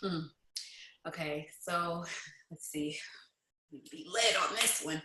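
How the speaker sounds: soft whisper while thinking; hushed thinking aloud; whispered to self. Real, not acted. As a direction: whisper it under your breath. Thinking aloud before answering.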